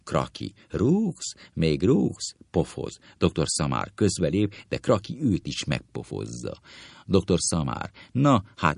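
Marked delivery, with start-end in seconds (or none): 0.7-2.3 indignant surprise. Acted. Surprised at being kicked.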